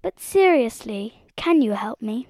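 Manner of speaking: earnest appeal. Acted. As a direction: drop the joking and ask plainly. Dorothy turns earnest after joking.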